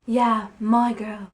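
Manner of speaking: slow, tender, drawn out; sweetly and quietly. Acted. Louis claiming Lily as his girl, slow and tender. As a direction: linger lovingly on each word. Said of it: "he breathed sweetly and quietly".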